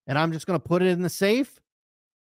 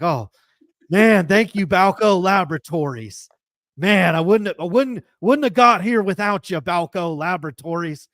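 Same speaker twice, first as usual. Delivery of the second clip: a mock-grateful thank-you, a bit louder; Barry Bonds acceptance speech; 3 dB louder than usual. Ballplayer thanking his steroid lab, loudly and mock-gratefully. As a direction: gush thanks to the drug lab like a proud slugger. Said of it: "Barry Bonds ... during his acceptance speech".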